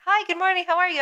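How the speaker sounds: very high, sing-song greeting; chirpy looping small talk; customer service voice. Retold or imitated. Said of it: "We just kept going back and forth".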